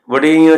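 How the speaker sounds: ਵਡਿਆਈਆਂ ending in a nasal aa; nasalised final vowel. Shown as a demonstration. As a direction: let the end of ਵਡਿਆਈਆਂ ring through the nose. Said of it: "ਵਡਿਆਈਆਂ ਦੇ ਕੰਨੇ ਉੱਤੇ ਬਿੰਦੀ ਲੱਗਣੀ". (ਵਡਿਆਈਆਂ ਦਾ ਆਖਰੀ ਕੰਨਾ ਨਾਸਕੀ ਬੋਲੋ)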